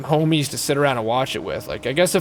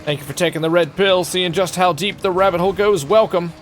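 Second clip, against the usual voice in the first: mock-dramatic follower welcome, slightly raised; hype announcer; 5 semitones higher, 3 dB louder than usual. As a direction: herald a newcomer into a mysterious world.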